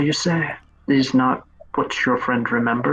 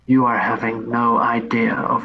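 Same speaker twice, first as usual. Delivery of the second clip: ominous warning. Acted. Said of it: "the way he said that".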